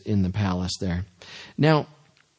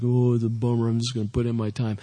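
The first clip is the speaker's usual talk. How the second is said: mopey complaint; faster than usual. Retold or imitated. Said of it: "those who are always like".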